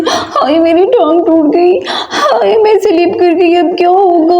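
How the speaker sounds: hammed-up moaning over a broken leg; pain moaning. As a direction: moan about the leg. Mother fell, moaning in pain. (टूटी टांग पर नाटकीय कराह)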